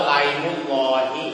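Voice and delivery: "ไลมุลลอฮี" run together as lai, without a glottal catch; hamza dropped. Shown as a demonstration. Teacher quoting Arab usage to students, hamza dropped. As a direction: link straight into "ไลมุลลอฮี", no hamza. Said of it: "ใส่ว่าไลนี่แสดงว่าฮัมซามันไม่มีแล้ว".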